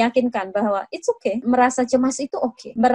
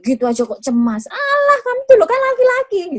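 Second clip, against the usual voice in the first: put-on high, scornful "you're a boy" taunt; mocking dismissal; 11 semitones higher than usual. Shown as a demonstration. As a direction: belittle him, pitch shooting up. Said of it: "Dismissing atau meremehkan". (mengejek dengan suara tinggi)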